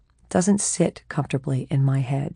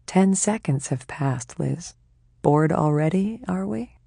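teasing, smiling; slower than usual. Acted. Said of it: "says Corella, smiling".

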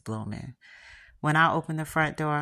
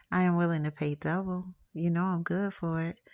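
seductive; 3 semitones higher than usual. Acted. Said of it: "she says in a seductive voice".

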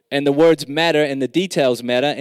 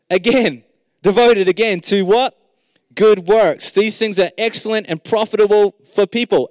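cheering up a friend; 5 semitones higher than usual. Real, not acted. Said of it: "I'm just encouraging myself".

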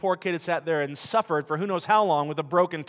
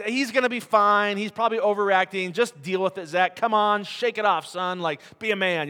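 louder, higher tough-love brushoff; dismissive dad; 4 semitones higher, 4 dB louder than usual. Retold or imitated. Father brushing off his hurt son, loud and dismissive. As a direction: shake it off, son, be a man. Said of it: "my reaction was".

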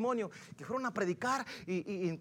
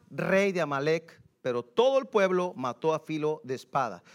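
scripture reading; 10 dB louder than usual. Acted. Reads scripture aloud.

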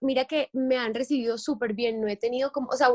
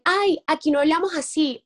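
annoyed commenter; 5 semitones higher, 3 dB louder than usual. Retold or imitated. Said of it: "me dicen".

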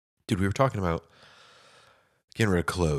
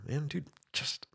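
mock self-pity; 12 semitones higher, much slower than usual. Mock complaint.

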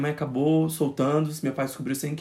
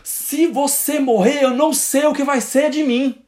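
mild emotional father; 12 semitones higher, 5 dB louder, slower than usual. Retold or imitated.

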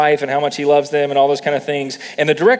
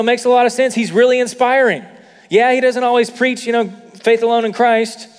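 mock excusing churchgoer; 4 semitones higher than usual. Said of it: "this whole sentiment of".

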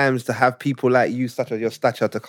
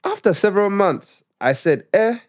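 put-on Ugandan accent; 3 semitones higher than usual. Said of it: "when I read it in Ugandan accent".

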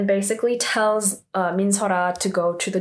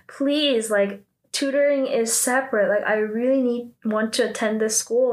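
begging; 2 semitones higher than usual. Retold or imitated. Student begging the school director to stay, pleading. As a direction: plead lightly with raised pitch, imitating her. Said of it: "begging her".

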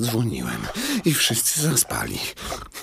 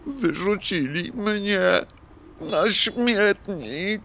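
dismayed; 13 semitones higher, much slower than usual. Acted. Clock dismayed at being thrown out.

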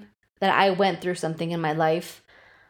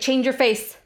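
retold order at ordinary speed, higher; imitated mom's order; 4 semitones higher than usual. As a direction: toss out a mother's command, imitated. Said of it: "my mom used to be like".

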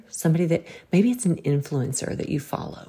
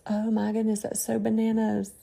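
mock exclamation; 6 semitones higher than usual. Shown as a demonstration. Demonstrating a substitute for cussing.

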